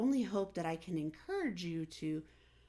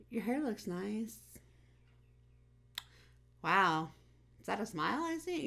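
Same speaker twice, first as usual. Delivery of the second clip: higher, bright upbeat praise; cheery compliment; 4 semitones higher than usual. Retold or imitated. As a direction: lift someone's mood in passing. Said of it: "I'm gonna be like".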